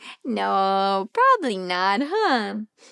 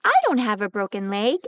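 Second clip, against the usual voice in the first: fast reading; 6 semitones lower, faster than usual. Acted. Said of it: "the sniffles".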